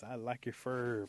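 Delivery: slow, lingering compliment; admiring flirtation.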